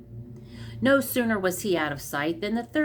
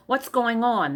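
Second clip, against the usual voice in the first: shout; 6 semitones higher, 4 dB louder than usual. A narrator's reading. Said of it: "the merchant shouted".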